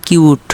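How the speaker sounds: "কিউট", u said like its letter name; u sounded as "you". Shown as a demonstration. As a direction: say "কিউট" with a yu glide after k. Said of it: "ইউ sound বোঝায়".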